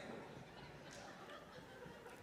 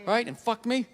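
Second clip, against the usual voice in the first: fast indignant rant; 3 semitones lower, faster than usual. Retold or imitated. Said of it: "I'm like".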